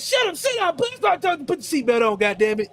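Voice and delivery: high mock mother barking orders; mock scolding mom. Mother scolding her son in the car, high mock voice. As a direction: fire off orders as the flustered mom. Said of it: "She was like".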